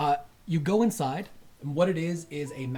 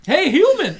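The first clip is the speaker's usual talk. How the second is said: high, loud shout; loud call; 14 dB louder than usual. Acted. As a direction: call out to the human. Guard calls to player.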